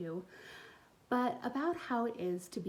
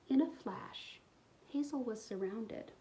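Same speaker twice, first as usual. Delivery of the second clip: put-on expressive read-aloud for young kids; storybook reading; 3 semitones higher than usual. A narrator's reading. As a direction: tell the story warmly to little listeners. Reads picture book aloud.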